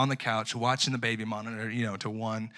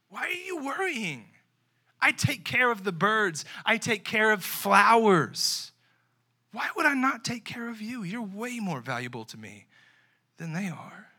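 voice of Jesus; 7 semitones higher than usual. Pretend. Preacher voicing Jesus reassuring his listeners, gently. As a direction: ask why they worry, tenderly. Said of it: "'Cause Jesus is saying".

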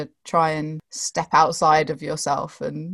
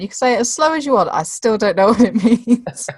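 higher, quick quote breaking into laughter; mum's retort; 6 semitones higher, 4 dB louder, faster than usual. Retold or imitated. Student retells mum's reply to slowed-down presentation, laughing retort. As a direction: imitate mum, amused and rising in pitch. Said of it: "and she went".

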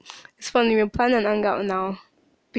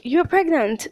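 a hint of a stern mom, raised; lightly voiced accusing mother; imitating mom; 6 semitones higher, 4 dB louder than usual. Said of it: "she was like".

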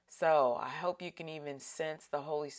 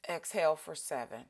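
breathing cue; faster than usual. Shown as a demonstration. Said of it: "let's breathe in".

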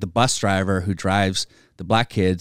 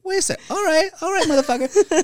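much higher hammed-up heckler; audience callout. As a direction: squeal it, mock offended then delighted. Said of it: "Sometimes they'd be like".

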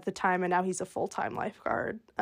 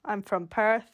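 lightly put-on Australian; bad Australian accent. Cousin fooling kids about Perth, bad Australian accent. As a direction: try a weak Aussie accent. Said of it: "That was bad".

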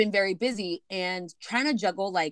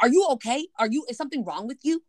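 mock fake concern; 4 semitones higher, 4 dB louder than usual. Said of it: "this man starts yelling at me".

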